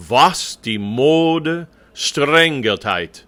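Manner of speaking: "Was die Mode streng geteilt" in drawn-out German; slow diction model. Shown as a demonstration. Coach reading the text for the choir, slow careful diction. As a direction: space out each word firmly. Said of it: "I'll be doing some reading of the text".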